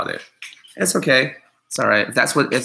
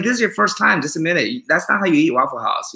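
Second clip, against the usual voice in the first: higher, teasing accusation; mock call-out; 5 semitones higher than usual. Calling out a fraud at Waffle House, teasing accusation. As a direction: bust them as a fraud, playfully. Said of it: "I'll be like".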